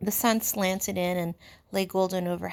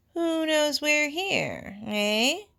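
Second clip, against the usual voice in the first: pointed question; 8 semitones higher, 4 dB louder, much slower than usual. Acted. Piggy pausing effectively.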